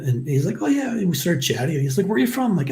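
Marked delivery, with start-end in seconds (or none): 0.6-0.9 very high-pitched agreement; imitated eager reply. Canadian legionnaire chatting with new countryman, excited. 2.1-2.5 high-pitched, curious quote; imitated eager question. Canadian stranger asking recruit his hometown, eager.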